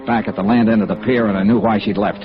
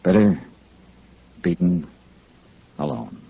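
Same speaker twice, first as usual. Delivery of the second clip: somber; 4 semitones lower than usual. Acted. Somber closing reflection.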